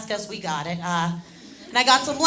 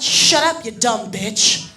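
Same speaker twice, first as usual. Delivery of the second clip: angry retort; 5 dB louder, much slower than usual. Acted. Drunk man turning back on the friend, angry retort. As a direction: fire back an insult.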